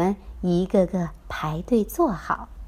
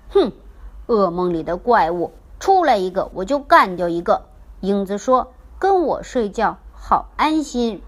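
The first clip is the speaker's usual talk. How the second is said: louder, bold teddy bear bragging; proud bear protector showing off; brave boast; 4 dB louder than usual. Acted. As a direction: puff up and boast.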